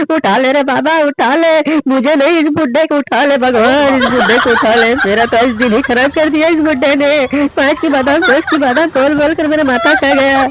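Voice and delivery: hammed-up wail to God. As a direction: throw up your hands and beg God in mock despair.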